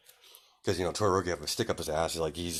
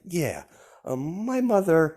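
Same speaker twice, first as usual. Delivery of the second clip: smiling; 8 semitones higher, slower than usual. Acted. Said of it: "he's smiling".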